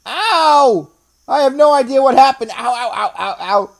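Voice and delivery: high laughing yelps of pain. Real, not acted. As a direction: wince and laugh through it. Hit head on ceiling.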